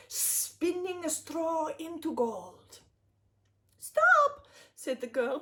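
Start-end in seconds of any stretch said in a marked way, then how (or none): 3.8-4.5 high, loud cry of stop; shouting stop. Acted. Desperate girl yells at the spinning imp. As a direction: yell it high to halt him.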